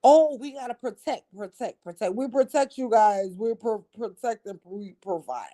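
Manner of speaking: lightly mocking singsong, repeating protect; mocking parody. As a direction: mimic their hollow promises with mild scorn. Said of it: "they talk on both sides of their fucking mouth".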